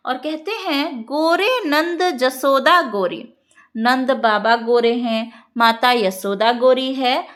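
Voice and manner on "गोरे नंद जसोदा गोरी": verse recitation. Shown as a demonstration.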